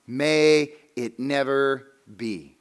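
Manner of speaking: "May it never be" in slow, weighty words; slow, deliberate "May it never be"; emphatic. Shown as a demonstration. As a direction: stretch out "May it never be" word by word. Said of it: "Paul uses that emphatic".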